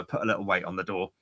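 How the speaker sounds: fast unvoiced whisper to the waiter. Manager whispers orders to young waiter, fast hushed whisper. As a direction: hush it quickly, like a boss's aside. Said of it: "Steve said to him".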